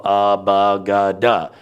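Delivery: "abagada" slowly, each syllable evenly sounded; letters run together. Shown as a demonstration. Teacher showing letters falling like dominoes, evenly sounded out. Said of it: "So you go".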